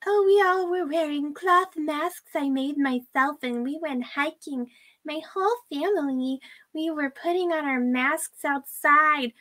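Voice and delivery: mocking her. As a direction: parody her prissy excuse. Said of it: "where she's like".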